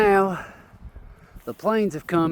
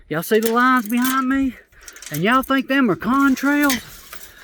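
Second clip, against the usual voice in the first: incredulous; 7 semitones higher, 3 dB louder than usual. Real, not acted. Calling out viewers, incredulous.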